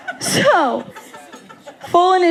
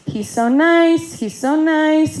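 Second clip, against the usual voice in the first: higher, drawn-out imitation of praise; mock gushing; 4 semitones higher than usual. Sister quoting the family on Danielle's new boyfriend, mock gushing. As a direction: parrot the gushing in a slow singsong.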